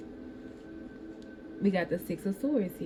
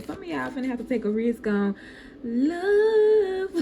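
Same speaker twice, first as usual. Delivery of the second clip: laughing; 7 semitones higher, 4 dB louder than usual. Real, not acted. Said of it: "This is so funny".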